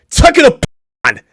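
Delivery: furious high-pitched yelling; angry shout. Real, not acted. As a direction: yell it high and loud. Yelling at the video.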